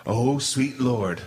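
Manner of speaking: drawn-out dismay, very slow; imitating his own dread, dragged out; slow dismayed sigh. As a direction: let it sink in slowly, dismayed. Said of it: "I'm like".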